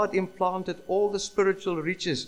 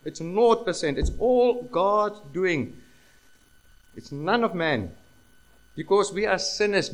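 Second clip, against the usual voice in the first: raised, higher, forceful sermon delivery; emphatic preaching; 4 semitones higher, 6 dB louder than usual. Real, not acted. Preacher telling congregation salvation is all God's doing, emphatic preaching. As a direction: drive the point home, louder on key words.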